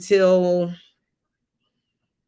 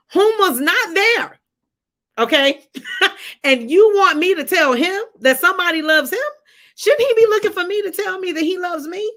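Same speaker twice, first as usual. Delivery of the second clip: higher, slowed, disbelieving questions; a daughter balking at a divine request, pitched up in disbelief; incredulous pushback; 7 semitones higher than usual. Retold or imitated. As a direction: argue back at God in mock outrage. Arguing back with God, incredulous.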